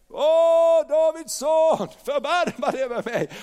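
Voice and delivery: loud, high, drawn-out plea. Acted. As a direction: cry out desperately for mercy. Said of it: "han ropade ännu mycket mer". (högt, utdraget rop)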